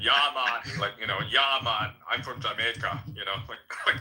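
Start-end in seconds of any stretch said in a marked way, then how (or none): 0.0-0.6 loud Jamaican-style troll accent; Caribbean troll accent. Shown as a demonstration. Showing the favorite troll voice, loud Caribbean accent. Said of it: "the Caribbean sort of voice". 1.3-3.0 light put-on Jamaican accent; Caribbean troll accent. Shown as a demonstration. Showing the troll voice to friends, Jamaican accent. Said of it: "the Caribbean sort of voice".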